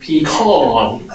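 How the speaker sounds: "pecan" slowly as pee-KAHN, with a laugh; pronunciation demo. Shown as a demonstration. Teacher giggling through the last "pecan". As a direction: laugh out "pecan" with a broad second vowel. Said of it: "and pecan".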